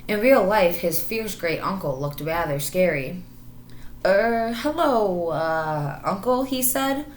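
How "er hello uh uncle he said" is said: slow, hesitant nervous greeting. Acted. Marmaduke timidly greeting the scary tiger, nervous and halting. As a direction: falter as the knees wobble. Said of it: "his knees began to wobble".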